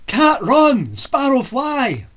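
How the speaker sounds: loud, high urgent call; shout. Acted. Young lad shouting to the cat and sparrow for rescue. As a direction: cry out for help. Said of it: "The boy shouted".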